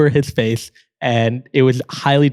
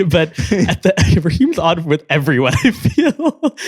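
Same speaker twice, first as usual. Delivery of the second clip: laughing; 3 semitones higher, slower than usual. Real, not acted. Laughing about Raheem.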